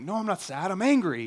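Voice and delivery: mildly annoyed mock protest, punched at the end; mild retold annoyance. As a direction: act out a touch of parental irritation. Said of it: "annoyed by that".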